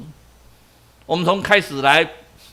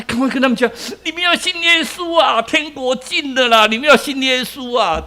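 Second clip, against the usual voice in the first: urgent calling out; 4 semitones higher than usual. Acted. Inner urge, preaching aloud.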